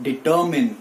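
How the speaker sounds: "determine" ending in MIN; correct pronunciation. Shown as a demonstration. Teacher giving learners determine as dee-TUR-min. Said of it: "The right pronunciation for this word is".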